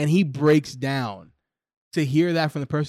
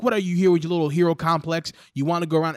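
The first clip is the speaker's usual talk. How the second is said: mildly scornful dad, pitched up; retold scolding with a touch of bite; imitated telling-off; 3 semitones higher, 4 dB louder, faster than usual. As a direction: go off on him like a disappointed father. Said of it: "his dad goes off on him".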